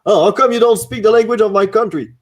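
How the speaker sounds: high, loud, affronted protest; mock indignation. French speaker challenging a government clerk, mock indignant. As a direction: throw it back at them, high and outraged. Retold argument over French service.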